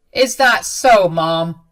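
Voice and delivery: loud, angry challenge. A narrator's reading. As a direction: confront mother with sudden force. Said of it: "said this in a very angry voice".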